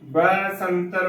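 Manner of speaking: slow "ਬੈ ਸੰਤਰ" with an open bai; correct pronunciation. Shown as a demonstration. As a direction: open the vowel in "ਬੈ ਸੰਤਰ": bè-santar. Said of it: "ਬੈ ਸੰਤਰ ਉਚਾਰਨ ਕਰਨਾ ਹੈ".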